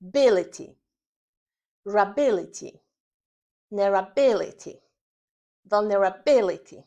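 "bility, rability, nerability, vulnerability" with long pauses, "bi" loud; teacher modelling "vulnerability" piece by piece, stressed on "bi"; back-chaining drill. Shown as a demonstration. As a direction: build up to "vulnerability" from the end, punching "bi" each time. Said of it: "wymawiania od tyłu sylaba po sylabie".

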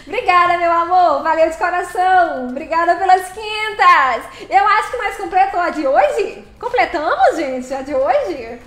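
delighted, loud thanks; excited celebration. Real, not acted. Goal reached celebration.

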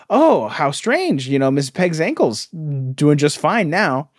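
slow, hammed-up theatrical musing; stilted Batman line. Mocking Batman's clumsy detective line, slow and hammy. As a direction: drawl the clue out like bad comic dialogue.

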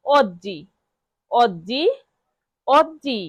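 oggi said OD-jee, each repetition set apart; model pronunciation. Shown as a demonstration. Teacher drills learners on oggi, careful model pronunciation. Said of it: "বারবার শব্দটি উচ্চারণ করব".

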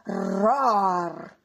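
loud roaring dinosaur; playful storybook roar. A narrator's reading. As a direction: roar it out like a big beast. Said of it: "Poi ruggiva con fragore".

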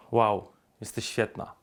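slow, self-assured compliment; uncompromising, self-assured. Shown as a demonstration. Dating coach demonstrates a compliment to a girl, uncompromising and slow. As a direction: say it slowly, for your own sake. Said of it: "bezkompromisowo dla siebie".

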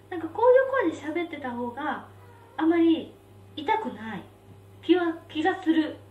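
high head voice, carefully held; falsetto. Shown as a demonstration.

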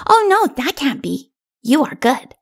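put-on high, earnest child voice; little child protesting. A narrator's reading. Little one reassuring king, earnest child.

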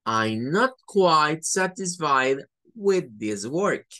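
slow, tactful I'm not quite satisfied. Shown as a demonstration. Teacher to student softening criticism, tactful. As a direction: let them down gently. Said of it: "Sería más fácil decirle".

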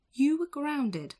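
loud, high scolding cry; mum scolding. A narrator's reading. Mum scolding Jack on his return, loud and high. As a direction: tell him off sharply. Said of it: "Jack's mum says".

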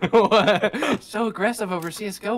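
amused disbelief through laughter; laughing. Real, not acted. Gamer teased by threats in CSGO, laughing in disbelief. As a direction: laugh through the words, incredulous. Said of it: "I'm laughing".

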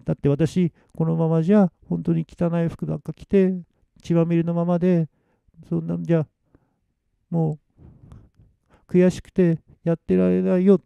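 high, soft, halting lament; tearful. Acted. Noriko's ghost lamenting her bloody clothes, tearful. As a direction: choke out the grievance with stuffed-nose sadness. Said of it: "涙声になってるんです".

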